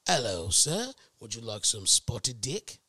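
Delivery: lightly voiced polite British server, rising on the last word; British waiter. Waiter offers menu items to a sir, mock-polite British accent. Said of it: "so I go".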